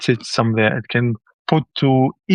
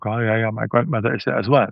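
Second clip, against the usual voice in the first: unimpressed reaction; 2 semitones lower than usual. Retold or imitated. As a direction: play a listener who couldn't care less. People unimpressed hearing about Facebook.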